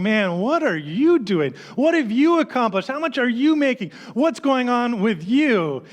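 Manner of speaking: half-voiced taunting inner critic; lightly voiced nagging doubt. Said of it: "that little voice in the back of my mind going".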